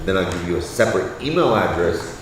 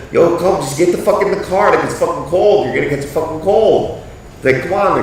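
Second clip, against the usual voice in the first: raised, loud calling voice; yelling at wife; 8 semitones higher, 4 dB louder than usual. Retold or imitated. Husband calling wife back to the car, raised yell. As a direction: urge her back to the car, loud and high. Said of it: "I was just yelling out to her".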